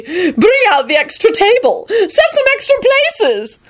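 high, slow singsong orders; excited trilling. A narrator's reading. Lady ordering tables for guests, excited.

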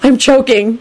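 high, urgent panic; frantic high cry. A narrator's reading. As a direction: panic inwardly, pitch up. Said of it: "Neville thought frantically".

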